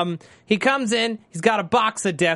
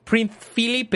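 put-on Spanish accent; 5 semitones higher than usual. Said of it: "It is a terrible Spanish accent".

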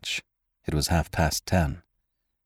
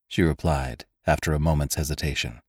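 usual speaking voice

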